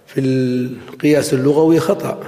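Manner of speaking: normal talking voice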